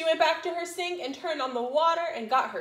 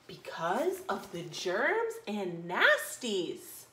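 ominous maid; 5 semitones lower, 3 dB quieter, much slower than usual. Acted. Maid warns the princess.

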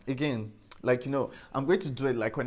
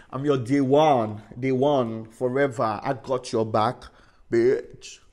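emphatic declaration; 6 dB louder, slower than usual. Real, not acted. Loyal friend promise, emphatic.

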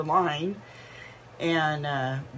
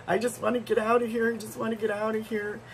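put-on crying child; 6 semitones higher, faster than usual. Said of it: "She's crying".

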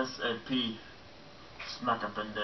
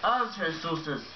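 grand proclamation; 7 semitones higher, 5 dB louder, slower than usual. Acted. Repeated pompous proclamation.

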